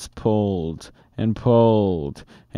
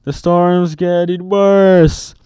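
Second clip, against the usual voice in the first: urgent; 7 semitones higher, 5 dB louder than usual. A narrator's reading. Annie urging from treehouse.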